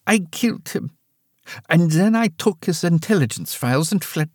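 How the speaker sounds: mother admits the killing to daughter; old mother, cold confession. Acted. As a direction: say it plainly, no apology.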